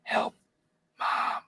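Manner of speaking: faint, muffled call for mom; weak cry for help. Retold or imitated. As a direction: try to call out but can't. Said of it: "can't scream out loud".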